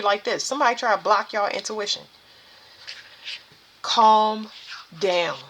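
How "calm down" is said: measured self-settling; drawn-out calming. Real, not acted. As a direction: stretch each word with a pause between. Calming herself or listeners.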